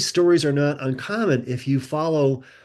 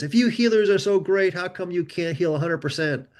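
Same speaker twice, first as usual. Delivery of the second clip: mock challenge; 5 semitones higher than usual. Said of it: "doubting Thomas of the world".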